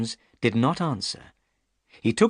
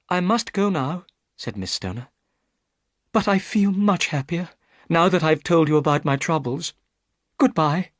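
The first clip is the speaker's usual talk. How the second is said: put-on young woman's voice, raised higher; a worried young lady pleading her case; Miss Stoner; 8 semitones higher than usual. Miss Stoner tells Holmes her trouble, higher anxious young woman.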